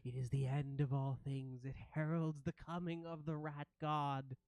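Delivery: lightly voiced awestruck rat creature; a touch of dread, proclaiming doom; ratling. Ratling watching the ghosts devour food, mildly awed creature voice. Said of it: "you hear the rattling say".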